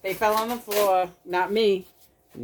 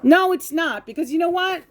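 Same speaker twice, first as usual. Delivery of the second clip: sharp denial; 9 semitones higher than usual. Real, not acted. Arguing with husband.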